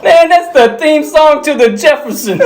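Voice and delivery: high, protesting impression; high mock exasperation; exasperated movie character. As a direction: pitch it way up in protest. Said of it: "And he's like".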